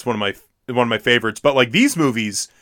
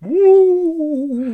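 sudden whoop. Real, not acted. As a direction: blurt out a startling cheer. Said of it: "Joey, stop it! You scare me like that".

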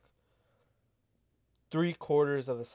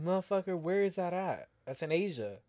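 mock exasperated, pitched up; incredulous rant; 5 semitones higher than usual. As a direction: hammer it like it's obvious to anyone. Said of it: "I'm like".

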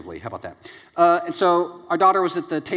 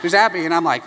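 ordinary talk, nothing marked

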